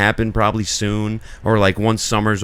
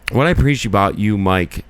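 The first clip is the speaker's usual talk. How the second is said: slurred; 2 semitones lower than usual. Real, not acted. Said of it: "I kinda slurred that a little bit".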